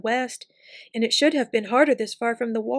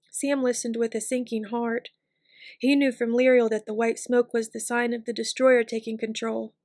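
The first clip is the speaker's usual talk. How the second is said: usual speaking voice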